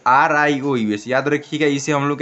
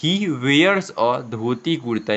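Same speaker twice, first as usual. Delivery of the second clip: slow, word by word for learners; slow model reading; much slower than usual. Shown as a demonstration. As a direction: read it out slowly like a teacher. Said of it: "एक बार देखने का प्रयास करें". (धीरे-धीरे पढ़कर सुनाना)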